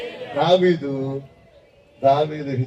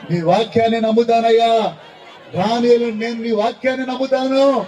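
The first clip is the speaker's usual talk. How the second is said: fervent declaration; 3 semitones higher than usual. Shown as a demonstration. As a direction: declare it to Jesus with growing fire. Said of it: "ఎవరి మాట నమ్మాలి?". (దేవునికి ఉత్సాహంగా ప్రకటించే ప్రార్థన)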